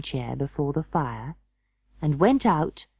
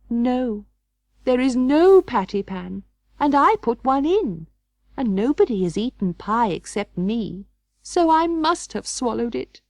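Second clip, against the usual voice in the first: higher, anxious little dog voice; rising alarm over the missing patty pan; fretful Duchess; 6 semitones higher, 3 dB louder than usual. A narrator's reading. Duchess alone by the fire, fretting aloud, pitched higher and anxious. Duchess searching pie dish.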